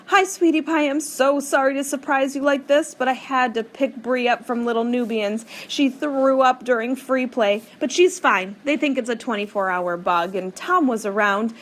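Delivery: high, loud, hurried mom on the phone; an apologetic mom out of breath; rushed mother. A narrator's reading.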